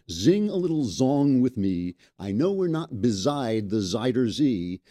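reads the lyrics in a light mock Dutch accent, z for s; half-sung playful Dutch accent lyric reading. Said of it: "they're singing in a Dutch accent".

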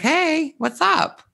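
high, put-on casual hey; a rapper's greeting. A rapper greets her backstage, high casual hey. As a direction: toss off a cool celebrity greeting. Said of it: "It was like".

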